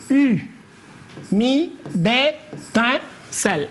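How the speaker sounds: "U, mi, des, tin, celle" as isolated syllables with pauses; "U, mi, des, tin, celle" spaced apart for scansion. Shown as a demonstration. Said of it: "nous allons essayer de découper".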